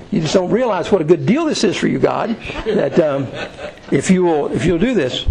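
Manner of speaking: chuckling through the words; laughing. Acted. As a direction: laugh while selling the deal. Teasing God, laughing.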